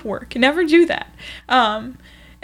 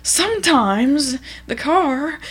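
Walter; much slower than usual. Retold or imitated. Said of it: "Walter would be like".

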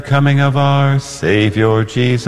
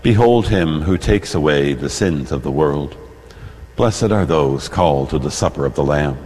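solemn prayer; 6 semitones lower than usual. Acted. Priest prays aloud at Mass.

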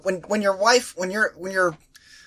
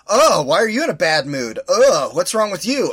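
mock badgering. Teasing the in-laws back with fake concern, mock nagging. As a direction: pester him the way they pestered you. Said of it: "I'm just gonna badger you".

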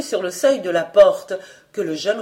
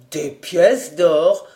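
slow, lower echo, lightly voiced young journalist; doubting reporter; 3 semitones lower, 4 dB louder, much slower than usual. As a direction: repeat "pièces d'or" slowly and lower, unconvinced. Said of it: "déclarait le reporter". («Des pièces d'or» répété lentement, plus grave, sceptique)

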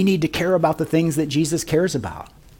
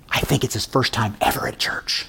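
hushed, softer aside; retold whisper; 5 semitones lower, 7 dB quieter than usual. Usher confiding to the pastor, hushed mock whisper. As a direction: lean in and murmur it low. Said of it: "Jerry kinda whispered to me".

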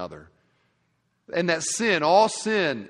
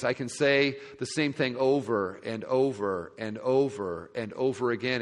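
ordinary delivery

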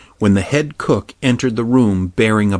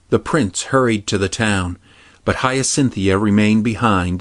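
ordinary delivery

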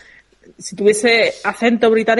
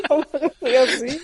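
laughing protest; 3 semitones higher, 4 dB quieter, faster than usual. Real, not acted.

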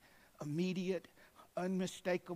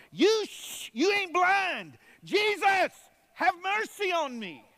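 much higher, louder, slow defiant yell; defiant shout; 14 semitones higher, 12 dB louder, slower than usual. Acted. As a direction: shout back at the crowd. Blind man defies crowd, louder.

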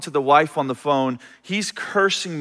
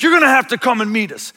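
demanding caller; 5 semitones higher, faster than usual. Retold or imitated.

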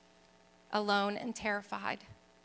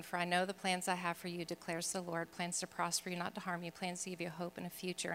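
much softer, lower scripture quote; hushed verse reading; 4 semitones lower, 11 dB quieter than usual. Retold or imitated. Reading a friend's note with a Bible verse, low and hushed. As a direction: recite it low and quiet, almost to yourself.

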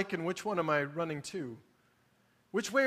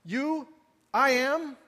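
higher, taunting see how different we are; mock smug pointing out difference; 6 semitones higher, 6 dB louder than usual. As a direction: needle them like a smug know-it-all, pitched up. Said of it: "to say".

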